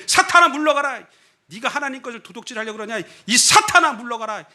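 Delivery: hammed-up high rebuke to a wife; mock scolding. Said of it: "그러면 부인이 그러면". (아내를 꾸짖는 척 높게 호통)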